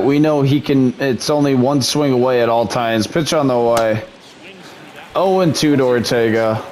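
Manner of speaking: plain. Acted.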